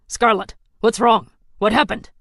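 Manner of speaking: anxious check-in; a hint of a concerned friend; worried ally. Ally worried over the comms.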